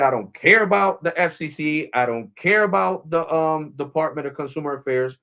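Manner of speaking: imitated anger. Customer retells an employee's angry dismissal to a manager, mock mad. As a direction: mimic someone mad and dismissive, lightly. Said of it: "he got mad at me".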